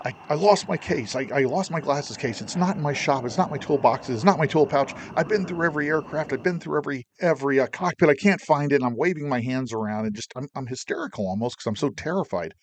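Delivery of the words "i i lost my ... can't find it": rushed, stammering retold panic, a bit higher; mild replay of a frantic confession; rushing panicked. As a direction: blurt it out like you're scared stiff. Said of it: "and I'm, I'm rushing on".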